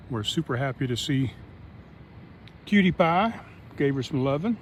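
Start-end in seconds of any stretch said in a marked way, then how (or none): 2.6-3.4 higher, louder pet-talk greeting; sweet dog greeting; cooing at a dog. Real, not acted. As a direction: coo her name to the dog.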